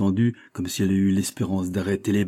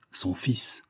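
soft breathless whisper; whispered reveal; 6 dB quieter than usual. Acted. Verduret reveals Raoul is her son, whispered. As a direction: let the secret out in a whisper.

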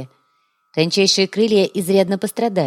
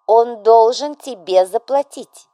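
firmly; 5 semitones higher, 6 dB louder, slower than usual. A narrator's reading. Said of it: "твёрдо произнесла вдова".

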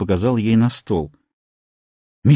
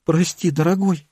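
stammering; 5 semitones higher than usual. A narrator's reading. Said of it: "заикаясь".

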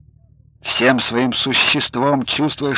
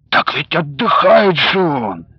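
flustered; 4 semitones higher, 4 dB louder than usual. A narrator's reading. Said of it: "растерянно объяснял".

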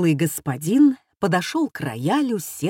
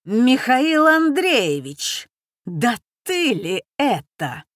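surprised; 4 semitones higher, 3 dB louder than usual. A narrator's reading. Poetess recognizing her ex-husband.

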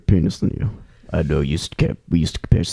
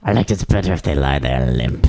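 put-on British accent; 3 semitones lower than usual. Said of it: "did you just become British all of a sudden".

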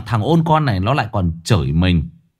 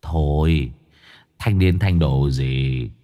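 persistent coaxing; 8 semitones lower, slower than usual. Acted. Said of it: "Ông Cường vẫn kiên trì".

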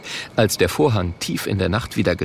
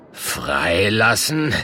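scornful drawn-out echo; much slower than usual. Acted. Murk scorning the plea.

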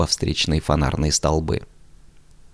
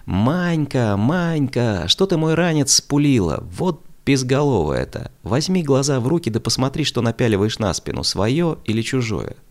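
yelling at the top of his voice; 7 semitones higher than usual. A narrator's reading. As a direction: bellow at your sister to give the bag back. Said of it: "закричал неожиданно благим матом".

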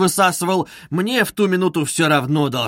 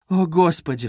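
cry out; 3 semitones higher than usual. Acted. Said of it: "вскрикнула она".

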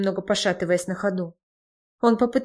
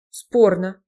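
mildly phlegmatic, unbothered reply; 5 dB louder than usual. A narrator's reading. Геннадий doubts his friend's reassurance, phlegmatic. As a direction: drop it in with unhurried doubt. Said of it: "флегматично заметил Геннадий".

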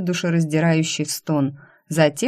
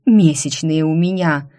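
огрызаясь; 5 dB louder than usual. Acted. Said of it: "огрызнулась я".

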